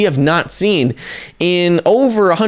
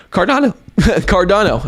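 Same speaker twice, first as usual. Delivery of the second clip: voice crack; 5 semitones higher than usual. Real, not acted. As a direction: voice cracks on a hiccup. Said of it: "like, had a voice crack".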